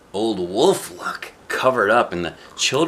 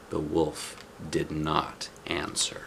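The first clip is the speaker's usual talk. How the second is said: whispered, slow and hushed; suspense whisper; 4 semitones lower, 10 dB quieter, slower than usual. A narrator's reading. Narrator reading to a child drops to a slow whisper. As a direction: hush it to build suspense.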